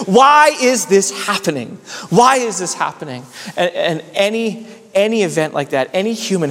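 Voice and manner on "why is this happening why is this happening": recalled anger, raised in pitch then easing; mildly heated pulpit lament; angry protest. Retold or imitated. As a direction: cry out a remembered why at death. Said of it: "I remember feeling angry".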